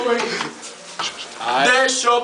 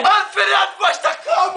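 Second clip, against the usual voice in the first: shouting; 5 semitones higher than usual. Pretend. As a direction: yell the news across the room. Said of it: "Grita, grita".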